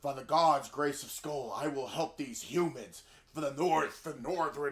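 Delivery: slow, grandly intoned warrior god; lightly put-on lofty Asgardian proclamation; imagined Thor voice. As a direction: proclaim it slowly like a Norse god. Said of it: "I was gonna get, like".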